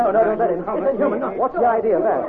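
high, agitated objection; desperate protest. Acted. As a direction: cry out against rough treatment. Captive protests forced face washing.

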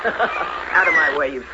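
mocking laugh. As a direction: laugh while shoving past. Stepsister shoos the cat.

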